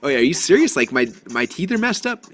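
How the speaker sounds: playfully aghast; surprised. Retold or imitated. Retold dismay at crowded teeth.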